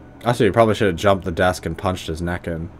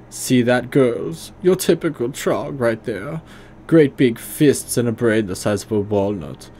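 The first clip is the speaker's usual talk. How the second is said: hammed-up bad German accent, higher and louder; awful German accent; 4 semitones higher, 3 dB louder than usual. Leader Stahl interrogates the troll in an awful German accent. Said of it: "I'm just giving him a awful German accent".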